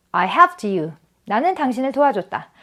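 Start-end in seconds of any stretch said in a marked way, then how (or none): 0.1-0.9 "helped you" run together as helpt-you; linked t ending. Shown as a demonstration. Teacher modelling a sentence for learners, "helped you" linked with t. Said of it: "요렇게 발음이 됩니다".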